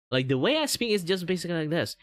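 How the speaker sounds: speaking English in his Mandarin tone. Shown as a demonstration. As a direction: pitch it up, lively and bright-toned like his Mandarin. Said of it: "have a little bit higher pitch".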